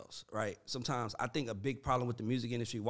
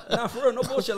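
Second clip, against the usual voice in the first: laughing; 9 semitones higher, 6 dB louder than usual. Real, not acted. Laughing at own memory.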